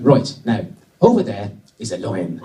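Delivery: lightly put-on Irish accent. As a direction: play the safari driver in mock Irish. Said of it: "So he's going to be Irish".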